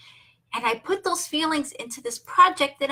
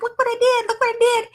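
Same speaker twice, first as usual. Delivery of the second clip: high, loud, thrilled little voice; excited child; 11 semitones higher, 5 dB louder, faster than usual. Retold or imitated. Grandma imitating her three-year-old grandson's thrilled cry. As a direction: show off like a proud toddler. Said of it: "he was so excited".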